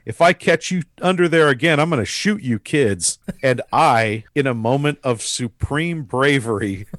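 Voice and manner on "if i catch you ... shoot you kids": raised, higher opening threat; mock-angry warning with a forceful start. Angry neighbor threatening kids under his house, mock-angry. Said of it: "in true Elk Washington fashion".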